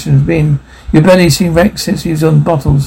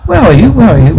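high, anxious call into the dark; sharp, scared cry for someone unseen; frightened call; 5 semitones higher, faster than usual. Acted. Frightened search in dark house.

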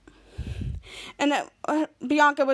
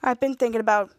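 tentative confession; 3 semitones lower than usual. Retold or imitated. Henry haltingly confesses his feelings.

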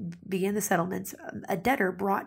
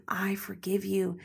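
tender forgiveness; slower than usual. Acted. God voiced forgiving tenderly.

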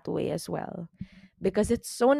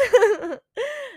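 high teary laugh; a real high laugh; 5 dB louder than usual. Real, not acted. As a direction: laugh it off, half crying. Laughs after her cheer.

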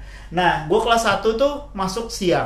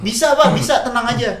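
higher-pitched, dismissive reassurance; teman ngeyel; 5 semitones higher than usual. Retold or imitated. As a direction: imitate a friend who won't listen. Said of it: "Temen gue ada yang ngeyel". (ngeyel dengan nada tinggi)

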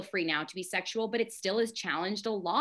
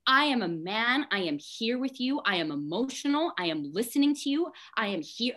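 offended protest; 4 semitones higher than usual. Retold or imitated. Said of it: "I'm offended".

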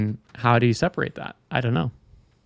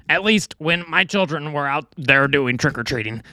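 put-on Brooklyn accent; 3 semitones higher than usual. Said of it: "little Brooklyn accent".

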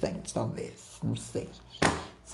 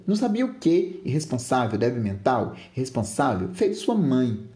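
angry retort; 2 semitones higher, 3 dB louder than usual. Acted. Father answering his daughter's apology, angry. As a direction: throw the words back as insults. Father throws her words back.

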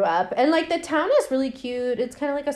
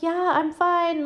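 high, slow put-on girl voice; slow, sweet eerie voice; fake Lisa voice; 7 semitones higher, slower than usual. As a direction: mimic a creepy doll copying a dead woman. Retelling Lisa's dummy voice.

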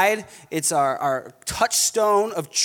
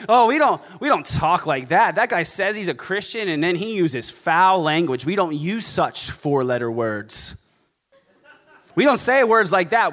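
hammed-up prim disapproval; snobby legalist. False teacher objecting to foul language, snobby. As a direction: scold like an offended church snob. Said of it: "incredibly snobby and legalistic".

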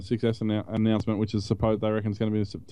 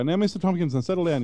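higher condescending agent voice; call centre agent; 5 semitones higher than usual. Retold or imitated. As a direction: talk down to the caller. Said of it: "they suddenly go".

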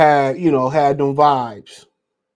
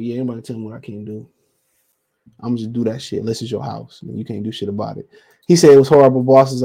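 ordinary talk

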